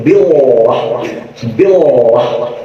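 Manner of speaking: lightly camp, lilting "billah"; a hint of a camp voice; mildly effeminate man. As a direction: imitate a slightly effeminate guy. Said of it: "ada orang Ampura rada lekong dikit".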